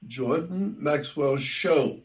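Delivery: slow, measured name with weight on "Show"; stress on Show. Real, not acted. Host giving listeners his website name, stress on "Show". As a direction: spell it out slowly, landing firmly on "Show". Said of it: "I emphasize the word show".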